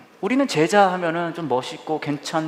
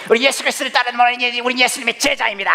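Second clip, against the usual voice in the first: higher, grand preaching voice; charismatic preacher; 8 semitones higher, faster than usual. Retold or imitated. Preacher mimicking a charismatic rally preacher, grand and higher. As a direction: proclaim it like a star preacher.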